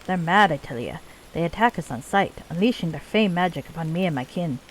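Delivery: put-on lightly done Scottish accent for a dwarf leader; bad Scottish accent. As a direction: play the dwarven chief with a rough-and-ready Scottish accent. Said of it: "my really bad Scottish accent".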